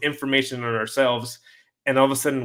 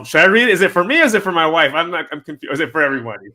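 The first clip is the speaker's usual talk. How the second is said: excited; 5 semitones higher, 8 dB louder, faster than usual. Real, not acted. Excited rant about reading book.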